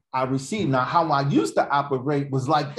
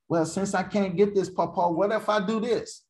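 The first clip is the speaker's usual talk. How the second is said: put-on high-pitched child's pleading voice; grandson bargaining; 7 semitones higher than usual. Grandson bargaining with his Papa, high wheedling. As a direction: pitch it up like a child making a deal. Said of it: "like my grandson, he'd be like".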